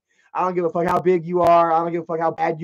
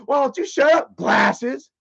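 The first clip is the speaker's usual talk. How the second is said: higher jeer, name-calling lilt at the end; mocking retort; 6 semitones higher, slower than usual. Heckler to girl with glasses, mocking retort. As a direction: taunt her with the nickname.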